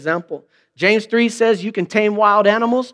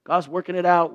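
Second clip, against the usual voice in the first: pastoral brush-off; 6 dB quieter than usual. Retold or imitated. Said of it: "So I want to go".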